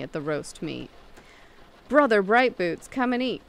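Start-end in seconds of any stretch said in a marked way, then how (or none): 1.9-3.4 raised, higher storybook call. A narrator's reading. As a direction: cry out an invitation to a companion. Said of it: "cried he to the huntsman".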